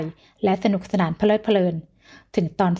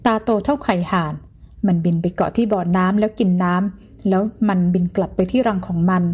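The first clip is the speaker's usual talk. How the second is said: slow, artful storytelling. Acted. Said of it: "เนิบๆ มีสูงมีต่ำ".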